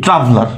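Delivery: ট্রাভেলার with the weight on ট্রা; stress on first syllable. Shown as a demonstration. Teacher answering how we say it, ট্রাভেলার stressed on ট্রা. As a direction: lean on the opening ট্রা of ট্রাভেলার. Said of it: "প্রথমটার মধ্যে কিন্তু আমরা প্রথম".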